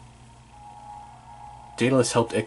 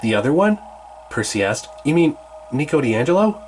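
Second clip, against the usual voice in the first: put-on higher teen boy voice; keen young hero, pitched up; Percy voice; 4 semitones higher than usual. Percy urges Annabeth to check the ranch, higher.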